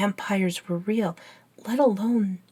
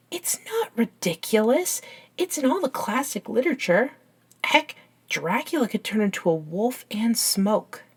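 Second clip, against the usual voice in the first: defensive insistence. Acted. Friend defending the bat theory to a vampire, defensive. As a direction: argue the case with rising pitch.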